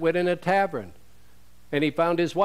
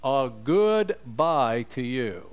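mock farewell; 3 semitones lower, much slower than usual. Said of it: "never said".

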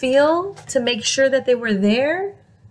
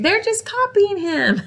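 laughing; 9 semitones higher than usual. Real, not acted. Narrator laughs at monkeys.

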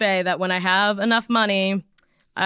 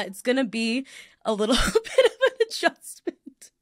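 crying; 3 semitones higher than usual. Real, not acted. Host facing a move to L A, laughing while crying. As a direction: laugh through real tears. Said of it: "cry on this fucking".

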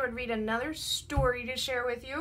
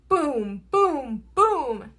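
strong, falling booms; thunder booms; 3 dB louder, much slower than usual. A narrator's reading. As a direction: boom like thunder. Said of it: "Mister Brown makes thunder".

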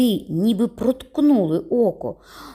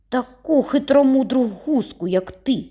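shouting; 6 semitones higher than usual. A narrator's reading. Boy yells a taunt at the bully while running. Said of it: "кричав він на ходу".

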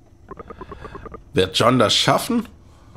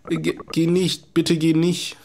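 slow, stammering plea, pitched up; mock pleading; 6 semitones higher than usual. Doctor begging John to stay, slow mock plea. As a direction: beg him not to leave, halting.

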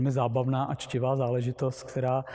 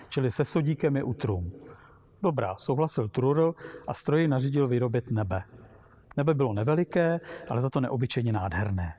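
animated, expressive storybook reading; story narration. Acted. Narrator telling listeners of Trurl's wondrous machine, lively story reading. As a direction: read the tale aloud with lively dialogue. Reads a Lem story aloud.

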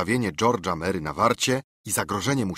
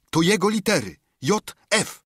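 excited pirate; 11 semitones higher, 4 dB louder than usual. Acted. Pirate recognizing Flint's marks.

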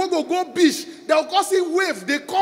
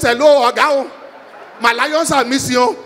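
panicked call; 4 semitones lower, 5 dB louder than usual. Acted. Locked in cage, calling police.

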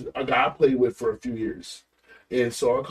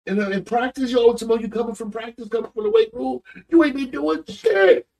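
retold scolding; 8 semitones higher than usual. Father scolds son in truck.

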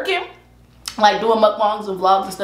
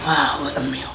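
whisper; 7 semitones lower, 5 dB quieter than usual. Real, not acted. Whispered aside after meal.

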